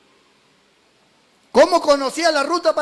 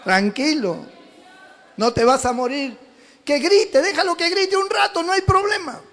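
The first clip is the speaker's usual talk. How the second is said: put-on calm the crying child; gentle fatherly hush; soothing God. El Señor dice.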